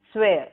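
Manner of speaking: "Swear" repeated carefully, standing alone; model pronunciation. Shown as a demonstration. Students speak the word after teacher, careful model "Swear". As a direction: give "Swear" as a clear word to echo. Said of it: "Speak the words after me".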